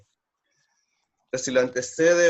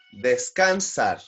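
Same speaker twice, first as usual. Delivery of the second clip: slow drawn-out; 2 semitones lower, much slower than usual. Shown as a demonstration. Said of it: "teacher stretches word".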